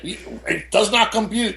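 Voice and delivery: a hint of a malfunctioning robot; cartoon robot. Stunned by the news, slow mock robot voice. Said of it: "I was like a Tex Avery character".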